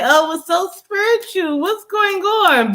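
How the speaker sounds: mock-dreamy imitation of people calling it spiritual. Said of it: "Y'all wanna say".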